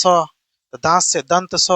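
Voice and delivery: slow right down to teach दंत स; slow, spelled out. Shown as a demonstration. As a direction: say दांत से दंत स slowly, word by word. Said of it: "इसको हम लोग बोलेंगे दंत स". (धीरे-धीरे समझाते हुए)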